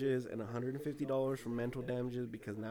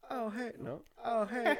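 failed high cartoon impression; high-pitched false starts at a cartoon voice; Cleveland; 9 semitones higher, slower than usual. Friend retrying the cartoon greeting, high impression. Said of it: "no, can't do it".

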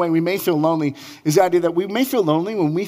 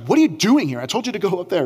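a hint of an impatient God demanding answers; stern rebuke; 4 semitones higher, faster than usual. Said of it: "'Cause God could be like".

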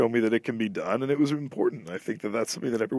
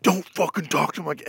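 a hint of the same mock tough dad, higher; aggressive dad; 5 semitones higher than usual. Father shooting back at the comedian, a lightly voiced mock tough dad. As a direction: repeat it like a stubborn dad. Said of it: "And he's like".

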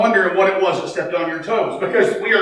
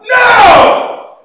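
a much higher, louder flat refusal; retold shouted no; 11 dB louder than usual. Wife arguing theology with her husband, a loud shouted no. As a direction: bark the no like an argument.

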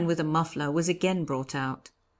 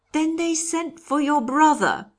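high, loud, drawn-out question; startled question; 11 semitones higher, 6 dB louder than usual. A narrator's reading. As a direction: ask it in raised surprise. Startled question interrupting the story.

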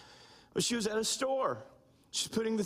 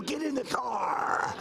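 stern command. Retold or imitated. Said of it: "she told our children".

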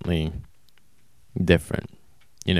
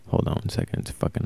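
whispering; 7 dB quieter, faster than usual. Real, not acted. Aside while stepping away.

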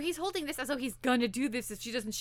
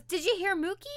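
higher-pitched, eager question; kind of excited; 7 semitones higher than usual. Retold or imitated. Retelling the girl waking to the computer's alarm, kind of excited. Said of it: "she's kind of excited".

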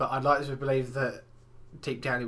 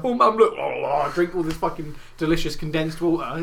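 a lightly voiced mock daughter; mocking silly girl; 2 semitones higher, 5 dB louder than usual. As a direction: play the dim girl urging her mum. Mocking the girl's imagined voice.

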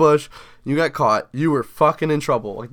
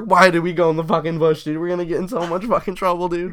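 raised, hurried retold panic; mock panic; 4 semitones higher than usual. Friends hiding in the bush fear trouble, mildly panicked. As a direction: imitate kids starting to panic. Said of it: "We're just, like, panicking".

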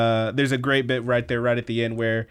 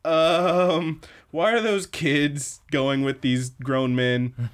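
slow, baffled onlooker's question; slow mock horror; appalled bystander; 3 semitones higher, slower than usual. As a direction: draw it out in mock disbelief, rising at the end. Voices shocked onlookers on the street.

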